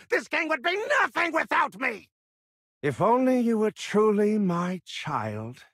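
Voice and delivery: high, fast furious yell; furious shout. Acted. Boss yells at Sonya over his gang, furious shout. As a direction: hurl it at her in rage.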